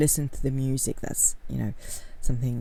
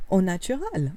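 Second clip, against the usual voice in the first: French accent; 2 semitones higher than usual. Shown as a demonstration. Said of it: "Saying it with a very French accent".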